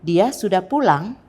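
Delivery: rising question on PULANG at the end; questioning intonation. Shown as a demonstration. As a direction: lift PULANG upward as a question. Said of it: "agak meninggi di akhir kalimat tanya".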